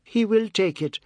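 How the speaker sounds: high, insistent cry. A narrator's reading. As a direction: call it out high and loud, pleading. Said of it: "she cried to Seth".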